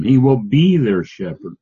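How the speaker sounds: HE WILL BE driven forward, peaking on BE; pounding emphasis. Shown as a demonstration. Teacher restating the verse as absolutely true, insistent stress on BE. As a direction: insist on it, leaning into BE. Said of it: "they're pounding the table".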